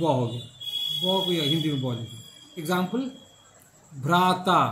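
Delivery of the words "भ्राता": breathy bh sounded out in भ्राता; clear demo word. Shown as a demonstration. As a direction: say भ्राता slowly with a strong aspirated bh. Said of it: "Sanskrit में भ्राता है". (भ्राता में भ का ज़ोरदार उच्चारण)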